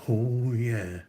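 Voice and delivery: mock crooned ad-lib; a singer. Complaining about a singer's catchphrase, crooned imitation. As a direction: imitate a pop singer's drawn-out "oh yeah". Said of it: "you're gonna get a".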